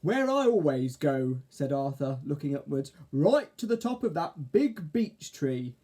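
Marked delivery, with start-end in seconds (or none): 0.0-1.4 slow caterpillar voice. Acted. Arthur character voice. 3.1-5.8 slow, higher caterpillar drawl. Acted. Arthur character voice.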